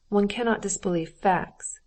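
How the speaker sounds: "facts" weighted firmly; stress on facts. Acted. Husband insists to Dolly, leaning on "facts". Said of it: "with an emphasis on the word facts".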